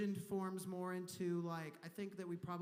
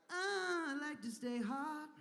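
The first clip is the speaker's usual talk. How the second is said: higher, eager repeat of hot; excited; 6 semitones higher, slower than usual. Shown as a demonstration. Comic repeating his line with a high eager lift. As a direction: say it again with a high burst.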